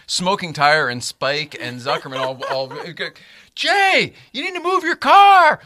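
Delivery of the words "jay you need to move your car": much higher and much louder, called across the lot; mock calling out. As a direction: shout it across the parking lot. Crowd calls out to Jay.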